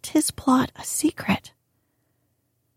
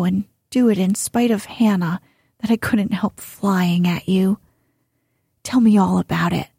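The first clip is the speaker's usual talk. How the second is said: breathless. Acted. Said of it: "saying breathlessly".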